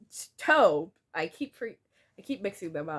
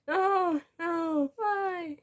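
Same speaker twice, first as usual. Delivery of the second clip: dying wail; 11 semitones higher, much slower than usual. Acted. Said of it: "as she's dying near the duck pond".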